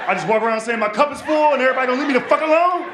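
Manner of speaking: loud, fast disbelieving questions; incredulous. Retold or imitated.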